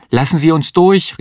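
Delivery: high, urgent demand; acted high-pitched urgent cry; urgent call. A narrator's reading. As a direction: call out to be let through. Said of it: "rief Mario".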